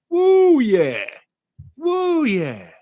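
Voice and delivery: excited cheer back to the chat; excited whoop. Real, not acted. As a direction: whoop it up like a fan in the stands.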